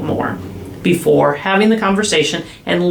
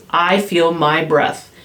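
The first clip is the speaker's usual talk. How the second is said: calm demo line; slower than usual. Shown as a demonstration. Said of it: "and say".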